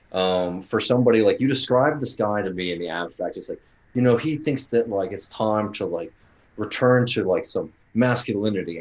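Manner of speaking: a light hint of a Canadian accent; slight Canadian accent. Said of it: "Are you doing a slight Canadian accent".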